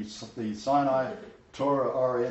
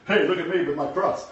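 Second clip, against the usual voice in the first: louder, higher, hammed-up boasting; mock show-off; 5 semitones higher, 6 dB louder than usual. Preacher mimics someone flaunting their cross, mock show-off. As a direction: call out for attention, imitating a show-off.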